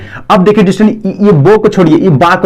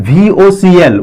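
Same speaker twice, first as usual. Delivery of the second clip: slow spelling; much slower than usual. Shown as a demonstration. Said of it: "vocal भी पढ़ा जाता है".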